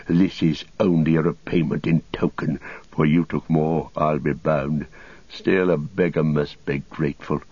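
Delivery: lightly voiced grudging wizard; a touch of sour, measured spite; Saruman. Saruman grudgingly takes the pouch.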